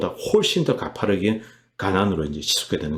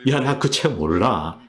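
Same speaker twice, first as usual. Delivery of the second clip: higher-pitched mock brush-off of an accuser; imitated dismissive retort; 3 semitones higher than usual. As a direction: act out a politician hitting back. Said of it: "이렇게 이제 받아치는 겁니다". (받아치는 수상 흉내)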